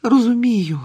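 high, loud reassurance; calm a friend with eager sympathy; emphatic, high sympathetic voice; soothing. A narrator's reading. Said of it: "заспокоювала його Герміона".

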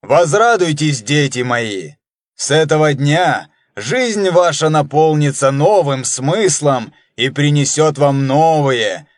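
lofty priestly proclamation; solemn voice. Acted. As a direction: preach it grandly, slowed down. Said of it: "торжественным голосом начал".

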